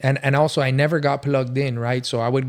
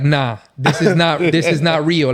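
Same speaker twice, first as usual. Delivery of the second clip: stunned disbelief; 3 semitones higher, 5 dB louder than usual. Retold or imitated. Stunned at cops letting them go.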